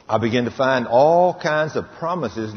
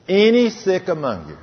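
scripture call; 6 semitones higher than usual. Acted. Repeated scripture quote.

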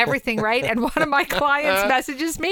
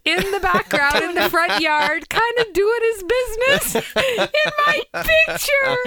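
high, drawn-out words breaking into laughter; laughing; 11 semitones higher, 3 dB louder, slower than usual. Real, not acted. Telling co-hosts about her embarrassing dog photo, laughing. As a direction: crack up while telling it.

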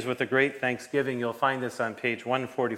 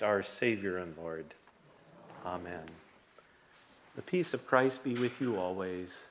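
prayer. Acted. Pastor leads opening prayer.

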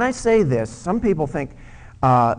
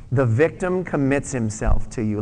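congregation reading along, louder; read aloud together. Shown as a demonstration. Pastor leads congregation in reading it aloud. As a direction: say it out loud with them. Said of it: "read that with me out loud".

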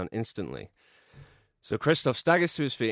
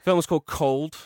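louder, higher trailer announce; dramatic reveal; 7 semitones higher, 8 dB louder than usual. Acted.

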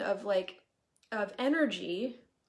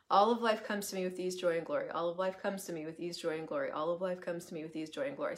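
repeated mantra; 2 semitones lower than usual. Shown as a demonstration. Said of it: "Say that ten times".

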